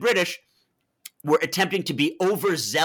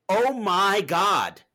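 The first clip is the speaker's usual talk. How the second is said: slow, drawn-out disbelief, pitched up; shocked realization; 4 semitones higher, much slower than usual. Retold or imitated. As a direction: let it dawn on you slowly, higher and stretched.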